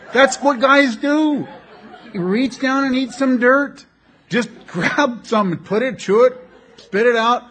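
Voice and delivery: loud, high, hammered-out exhortation; rousing manly rant. Real, not acted. Preacher telling men what guys do, loud comic rant. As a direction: belt it out to rally the guys.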